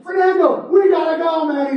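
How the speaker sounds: frantic call to a friend; urgent shout. Acted. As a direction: shout for him to come now. Cassandra shouting to flee.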